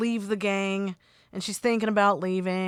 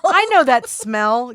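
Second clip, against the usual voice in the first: echoed mock accusation; 3 semitones higher, 6 dB louder than usual. Co-host echoes the acted accusation.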